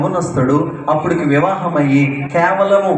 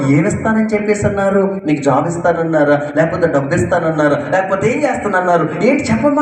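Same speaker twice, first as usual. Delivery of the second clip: eager questioning; faster than usual. Retold or imitated. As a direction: pester her for the answer. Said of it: "ఆతృతతో". (ఆతృతతో అడగడం)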